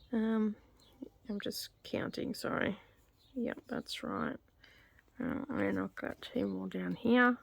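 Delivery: talking around a pencil held in the mouth; pen in teeth. Real, not acted. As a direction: speak with a pencil clamped between your teeth. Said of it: "Probably shouldn't put my pencil in my mouth".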